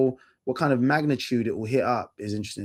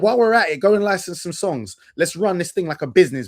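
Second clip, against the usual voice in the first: high, loud mock-businessman imitation; comic high-voiced bossiness; a singer; 7 semitones higher, 4 dB louder than usual. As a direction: imitate a star briskly giving orders, pitched up. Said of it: "He's like".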